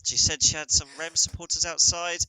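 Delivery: podcast host pretending partner vanished, mock announcer voice; mock solo podcast intro. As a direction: pretend to host alone, worried. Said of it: "Be like".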